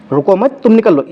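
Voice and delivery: रुको मत as one unit, then तुम निकल लो; pause after मत. Shown as a demonstration. Teacher explaining second meaning, pause after मत. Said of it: "इसीलिए कॉमा लगा है वहाँ पे".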